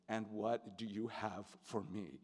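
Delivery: gently ask, a touch choked up; emotional. Retold or imitated. Leading man inviting suggestions in return, retold with emotion. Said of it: "I always get emotional".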